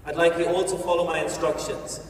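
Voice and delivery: ordinary talk, nothing marked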